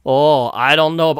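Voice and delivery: plain American take of the line; the wrong accent, American. Shown as a demonstration. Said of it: "that's the American".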